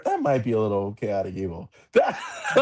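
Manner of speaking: laughing while getting the words out; cracking up mid-sentence. Real, not acted. Laughing at druid lighting fires.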